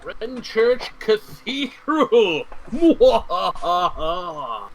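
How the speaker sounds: high, slow, gloating villain cry; mad scientist. Pretend. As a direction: announce it like a cackling madman. Villainous proclamation of location.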